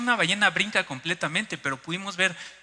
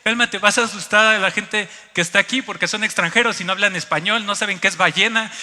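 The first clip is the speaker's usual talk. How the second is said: wifely scolding; 2 semitones higher, 7 dB louder than usual. Retold or imitated. Wife scolding husband for scaring foreigners, imitated scolding. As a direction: imitate a wife's urgent reprimand. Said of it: "mi esposa me regañó".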